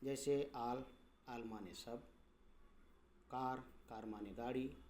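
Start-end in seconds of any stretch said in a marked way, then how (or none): 0.5-0.8 "आल" pronounced with आ, not ए. Shown as a demonstration. Teacher shows A read as आ, open "aa" in "आल". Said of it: "आ के रूप में". 3.3-4.0 "कार" with a long open "aa". Shown as a demonstration. Teacher gives an example word, open "aa" in "कार". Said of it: "आ के रूप में".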